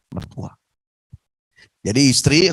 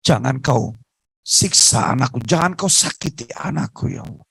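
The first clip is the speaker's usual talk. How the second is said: a touch of crying in a mother's prayer; tearful prayer. Acted. Beaten mother praying for her son, mildly tearful. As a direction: plead with God through mild tears. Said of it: "ibunya menangis".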